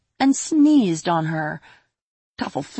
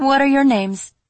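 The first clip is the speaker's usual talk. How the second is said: put-on bright high little girl; 9 semitones higher, 6 dB louder than usual. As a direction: lift it up like a young girl. Toffle voiced in story.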